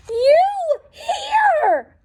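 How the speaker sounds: high, breathless surprise; gasping. Acted. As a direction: gasp the words in astonishment. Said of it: "gasped Mister Bird".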